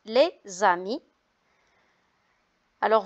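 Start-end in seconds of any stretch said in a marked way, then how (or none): 0.1-1.0 "les amis" with a clear Z linking "les" to "amis"; liaison demo. Shown as a demonstration. Teacher modelling the liaison for pupils, "les amis" with linking Z. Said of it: "on fait la liaison, on dit".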